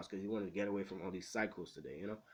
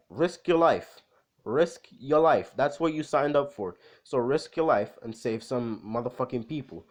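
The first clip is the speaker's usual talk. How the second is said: forceful, swearing rallying shout; loud exhortation; 2 semitones higher, 9 dB louder than usual. Retold or imitated. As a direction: belt it out as an order to risk it all. Acted outburst urging others to save people.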